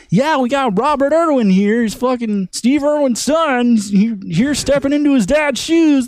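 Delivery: a hint of a chirpy late night host; bad Ellen. Host introducing Robert Irwin to the audience, mock upbeat talk show voice. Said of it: "That's a bad Ellen".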